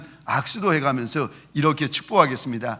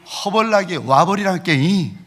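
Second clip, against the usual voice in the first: Jeolla dialect; 3 semitones higher than usual. Retold or imitated. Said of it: "전라도 말은".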